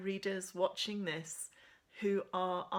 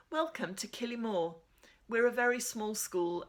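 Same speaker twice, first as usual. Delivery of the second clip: crisp teacher; 5 semitones higher, 4 dB louder than usual. Acted. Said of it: "Miss Madden says crisply".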